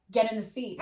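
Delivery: mother losing patience with the car seat, firm; firmer command. Retold or imitated. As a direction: put your foot down this time. Mom ordering daughter, repeated.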